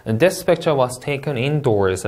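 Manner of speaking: very slow, clear model sentence; slow model answer reading. Shown as a demonstration. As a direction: read it slowly like an exam model. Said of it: "가보도록 할게요".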